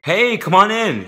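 high, slow, loud greeting; welcoming host. Acted. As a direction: draw out a cheery welcome.

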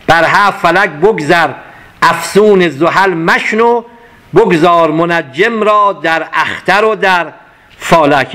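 slow, measured couplet; poem recitation. Acted. Teacher reciting the whole couplet to the class, measured. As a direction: recite the full couplet with weight.

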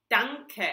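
"danke" said DAHN-keh, stress on the first syllable; German danke. Shown as a demonstration. Teacher modelling German thank you for learners. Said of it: "we say danke".

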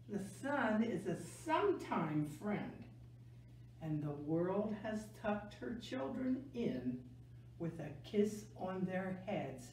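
gentle picture-book read-aloud; reading to children. A narrator's reading. Teacher reading a November book to kids, gentle storytelling.

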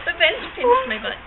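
giggling out a silly complaint; high, laughing, barely holding it together; laughing aside. Real, not acted. Reader breaks off the story to laugh about the bench.

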